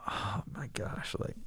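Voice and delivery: soft, slow, breathless whisper; learning of the dead horse, he whispers in dismay. Retold or imitated. Realizing the horse was loved.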